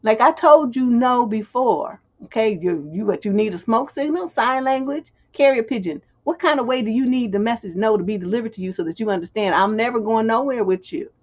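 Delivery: emphatic, exasperated telling-off; unambiguous refusal. Shown as a demonstration. Showing how to talk to a man who ignores no, exasperated. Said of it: "there's no room for ambiguity when you talk".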